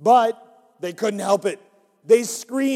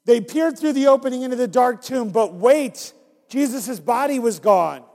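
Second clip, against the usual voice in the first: brighter, louder, building to the reveal; livelier dramatic reread; 4 semitones higher, 5 dB louder than usual. Shown as a demonstration. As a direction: read it again with more suspense. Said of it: "we're gonna do it again".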